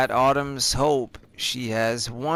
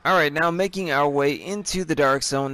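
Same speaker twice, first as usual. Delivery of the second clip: normal talking voice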